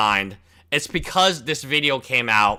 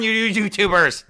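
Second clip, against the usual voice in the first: shouting at trespasser; 6 semitones higher, 5 dB louder than usual. Pretend. Grumpy old man yelling at YouTubers.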